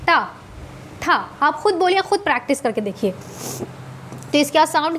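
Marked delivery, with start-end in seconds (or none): 0.1-1.1 टा, ठा with tongue rolled back; retroflex sounds. Shown as a demonstration. Teacher shows the tongue rolling, retroflex टा and ठा. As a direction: say टा, ठा apart, curling the tongue up. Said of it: "रोल हो रहा है".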